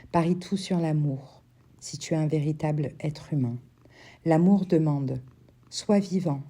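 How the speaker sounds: measured poetry recital with long pauses between verses; poem reading. Acted. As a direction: read it as a poem, verse by verse, letting each line settle. Reads a Rumi poem aloud. (lecture posée d'un poème, vers par vers)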